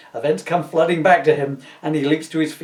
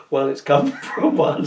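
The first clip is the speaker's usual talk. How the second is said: sighing; 4 dB louder than usual. Acted. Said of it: "sighed the nurses".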